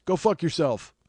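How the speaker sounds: mock indignation. Imagining the friend with joints dumped on his head, mock indignation. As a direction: play at outraged disbelief.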